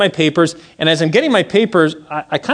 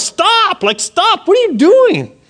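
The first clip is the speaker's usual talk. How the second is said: high-pitched mock yell; retold yell; 3 dB louder, slower than usual. Officer yelling at a speeding car, imitated high yell. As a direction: call out in alarm without full volume.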